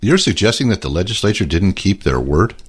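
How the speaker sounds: deadpan mock surprise; sarcastic. Real, not acted. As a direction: feign shock, dripping irony. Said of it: "that is sarcasm also".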